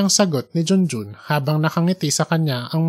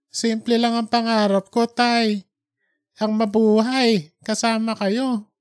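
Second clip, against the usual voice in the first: raised voice, gently insisting, slowing at the end; heartfelt son, lightly voiced higher; pleading grown son; 5 semitones higher than usual. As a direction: comfort your father and tell him he's not to blame. Son reassures weeping father.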